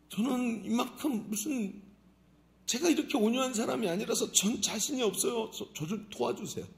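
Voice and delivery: sheepish laugh through the words; laughing prayer. Acted. Believer confesses to God with an embarrassed laugh. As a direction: admit weakness with a nervous laugh.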